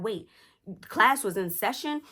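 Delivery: imitated incredulous mom checking "session"; startled question. Mom's startled question, then answer.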